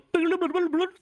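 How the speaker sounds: high babbled cartoon noise; cartoon sound effect. Shown as a demonstration. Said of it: "like, some Warner Brothers".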